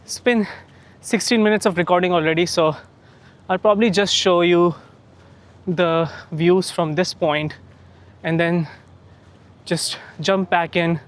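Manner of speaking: talking mid-run, slightly winded; while running. Real, not acted. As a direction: speak while jogging along. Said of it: "once I finish my run".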